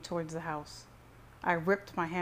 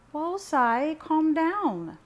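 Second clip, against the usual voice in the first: high, loud, drawn-out plea; alarmed mother; 10 semitones higher, 8 dB louder, much slower than usual. A narrator's reading. Mother breaks up the brothers' fight, alarmed. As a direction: cry out to stop him. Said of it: "said my mother".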